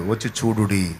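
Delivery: angel's proclamation. Acted. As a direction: announce it like a heavenly messenger, rising to a cry. Angel announces the resurrection. (దేవదూత ప్రకటన, చివర్లో పెద్దగా అరుపు)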